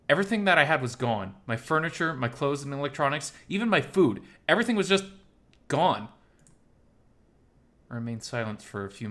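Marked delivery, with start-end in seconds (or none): 0.1-6.1 high, loud, upset outburst; distraught. Acted. Miles telling Oswald his home was emptied, distraught. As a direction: let the loss burst out, louder and higher.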